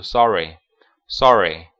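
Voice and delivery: "sorry" with an open American ah vowel; American pronunciation. Shown as a demonstration. English teacher contrasting the American reading of sorry, American accent. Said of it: "美式的话读".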